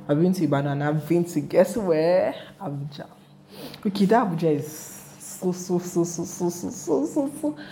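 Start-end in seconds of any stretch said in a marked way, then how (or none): 5.2-7.6 so, so drawn up toward amazing; gushing build-up. Real, not acted. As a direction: build the excitement step by step.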